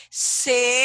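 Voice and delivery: "celular" in three spaced syllables, R held on "lar"; teacher's slow demonstration of "celular" with a long final R; syllabified pronunciation. Shown as a demonstration. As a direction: break "celular" into ce, lu, larrr. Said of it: "Porque na sua pronúncia".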